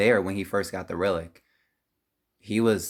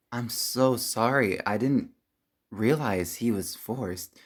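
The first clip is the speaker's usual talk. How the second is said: slow, halting regret; remorseful apology; slower than usual. Acted. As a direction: apologize slowly and sincerely. Apologizes after learning the truth.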